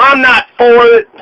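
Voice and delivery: southern twang. Retold or imitated. Quoting Jack Conway at Fancy Farm in a light Southern twang. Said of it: "with a nice southern twang".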